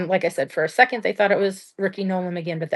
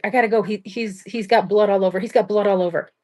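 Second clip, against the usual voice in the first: mildly freaked-out wife; 2 semitones higher than usual. Retold or imitated. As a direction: retell a wife's alarmed outburst, half in earnest. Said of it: "is freaking out".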